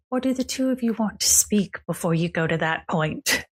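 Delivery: lightly voiced smug charmer; cocky grin. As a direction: smirk through it, playing cocky. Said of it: "very cocky grin".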